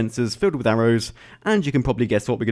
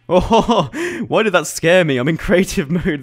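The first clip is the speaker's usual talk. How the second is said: startled laugh; 6 semitones higher, 6 dB louder than usual. Real, not acted. Scared by creeper, laughing.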